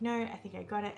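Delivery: quiet, close, gentle answer; soft reply. Retold or imitated. She reassures him in the library, quietly. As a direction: keep it hushed and close. Intimate scene retold.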